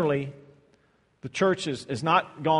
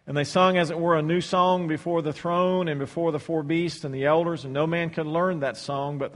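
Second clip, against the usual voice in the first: scripture reading. Acted. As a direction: read it out to the congregation. Reads the verse aloud.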